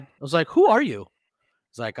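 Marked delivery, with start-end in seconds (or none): 0.5-1.1 high, loud, indignant challenge; retold disbelieving outburst; incredulous rebuff. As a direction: fling it at them like total strangers. Retold brusque rebuff of newcomers.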